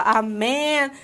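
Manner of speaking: slow, careful English line; slow demo English. Shown as a demonstration. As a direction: say it slowly, word by word. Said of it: "da nossa piada lá".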